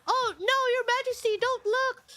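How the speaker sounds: mock damsel. Streamer imitating impostor who fell before the prince, mock flustered. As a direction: imitate a simpering seductress. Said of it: "Or something like that, like".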